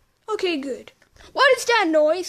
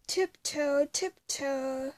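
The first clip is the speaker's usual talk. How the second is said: sneaking hush; 3 semitones lower, 8 dB quieter, slower than usual. Acted. Sneaking along a wall.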